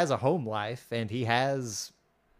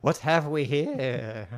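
awed Catherine; 4 semitones higher, 4 dB louder, slower than usual. Retold or imitated. Voicing Catherine marveling at box.

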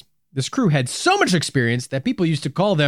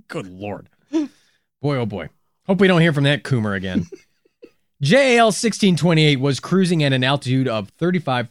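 laughing. Real, not acted. Laughing after the bit.

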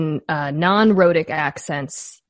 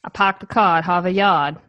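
Boston accent. Shown as a demonstration. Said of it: "that's very good".

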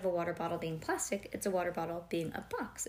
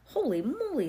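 louder, higher holy moly; loud exclamation; 6 semitones higher, 5 dB louder than usual. Acted. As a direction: blurt it out loud. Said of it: "said Bean loudly".

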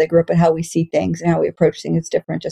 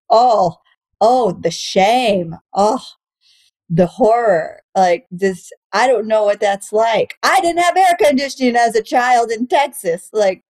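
slow, drawn-out sarcastic dismay; mock horror; 2 semitones higher, slower than usual. Comic mocking her girlfriend's childhood gripes with slow fake horror. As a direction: ham up the fake shock.

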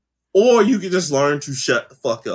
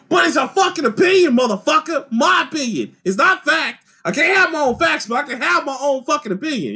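higher, fired-up mock tirade; hammed-up outburst, pitched up; mock heated rant; 9 semitones higher than usual. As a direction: act out ranting at your friends.

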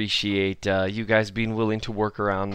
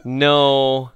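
laughing; 4 semitones higher than usual. Real, not acted. Laughing after being teased.

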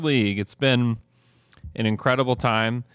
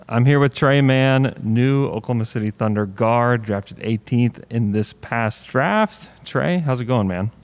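talking through a face mask; muffled, like speaking through a mask; 4 dB louder than usual. Real, not acted. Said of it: "it's because we're wearing masks right now".

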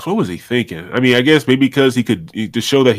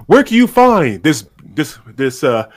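showman pitch rising to a high question; ringmaster; 4 semitones higher than usual. Acted. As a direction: ask it like a circus barker.

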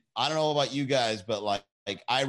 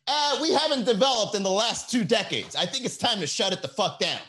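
higher mock brain voice; 6 semitones higher than usual. Brain announcing its own shutdown. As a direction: speak as your own tired brain. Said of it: "your brain's like".

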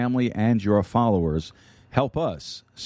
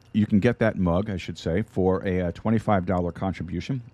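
talking around an ice chip; mouth full. Real, not acted. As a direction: speak with ice in your mouth. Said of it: "I got an ice chip in my mouth".

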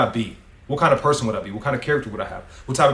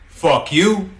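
louder, higher, punched curse; all-caps emphasis; 5 semitones higher, 4 dB louder than usual. Retold or imitated. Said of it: "Versus all caps, exclamation point".

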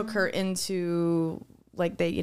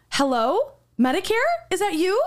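higher, louder, teasing hello to scammers; mock sweet phone greeting; 8 semitones higher, 4 dB louder than usual. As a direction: bait the scam caller playfully. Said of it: "So I picked it up and I go".

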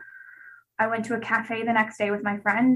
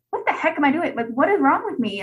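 retold despair; 5 semitones higher, 5 dB louder than usual. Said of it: "And, like, sobbing".

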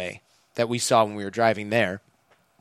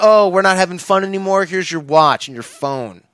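smug, louder and higher, casually gloating; mocking taunt; 6 semitones higher, 5 dB louder than usual. Guard taunting the beaten men returning phones, smug and mocking. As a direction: toss it off like a cocky thug. Security guys taunting them.

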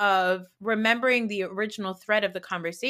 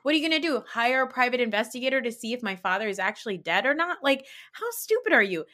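sassy; 3 semitones higher than usual. Retold or imitated. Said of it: "I would have said".

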